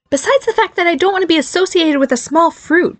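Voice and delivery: high-pitched peevish grumble; grumbling. Acted. Barry objects to a fruit name, grumbling. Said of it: "Barry grumbled".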